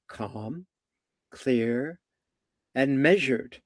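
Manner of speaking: slow, measured words with pauses between; unhurried and deliberate, each word set apart. Shown as a demonstration. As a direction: speak with calm authority, word by word. Models measured speech while describing it.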